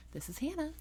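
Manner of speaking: high, soft, chipper phone voice; friendly customer service. Shown as a demonstration. Office worker answering the phone, friendly customer service voice. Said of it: "my friendly customer service voice".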